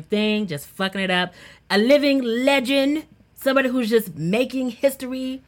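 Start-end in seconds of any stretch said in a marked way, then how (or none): 1.7-5.4 hype announcer. Real, not acted. Hyping the segment honoree.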